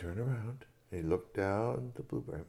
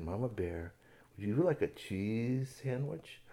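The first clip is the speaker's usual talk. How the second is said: gentle offer; 5 dB quieter, slower than usual. Acted. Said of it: "didn't want to startle the mama bear".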